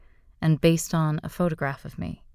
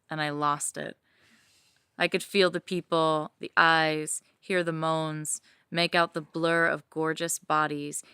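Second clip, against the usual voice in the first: sensual story narration; 5 dB quieter than usual. A narrator's reading. Reading her fantasy to listeners, intimate narration.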